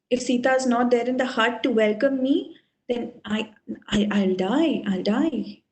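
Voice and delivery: sinking into mild despair; understated, resigned lament. Acted. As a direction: let the voice drop away in grief. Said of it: "he starts lamenting".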